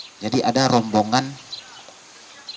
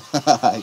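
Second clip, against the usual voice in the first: short laugh. Acted. Father laughs off son's assumption.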